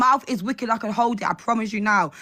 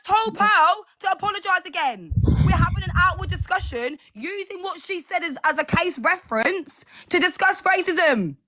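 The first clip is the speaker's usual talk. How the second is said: higher, heated protest that settles down; raging; 5 semitones higher than usual. Real, not acted. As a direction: fight back, still angry but reining it in. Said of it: "I'm fucking raging".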